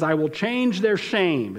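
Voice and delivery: slow, formal decree; solemn slow reading of God's decree; legal proclamation. Acted. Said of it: "like a legal proclamation".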